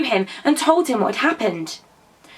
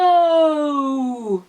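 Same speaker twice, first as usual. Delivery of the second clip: calling out; 5 semitones higher than usual. A narrator's reading. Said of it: "called Percy".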